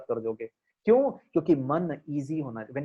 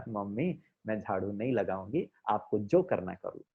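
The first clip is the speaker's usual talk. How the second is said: softer, gentle daughter's no; sweet refusal; 6 semitones lower, 6 dB quieter than usual. Pretend. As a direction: refuse mom lovingly and calmly. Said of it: "बड़े प्यार से बोलो".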